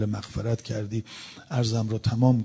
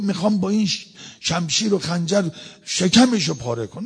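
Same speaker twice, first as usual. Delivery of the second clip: high-pitched hostile outburst; acted-out menace, pitched up; retold threat; 6 semitones higher than usual. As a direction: threaten him, acting out the stranger. Stranger threatens to stab Hasan.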